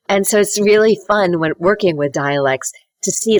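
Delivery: ordinary talk, nothing marked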